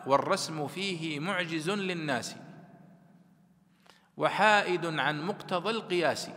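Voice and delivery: slow, measured recital of verse; verse recitation. Acted. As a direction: recite the poem slowly, drawing out each line.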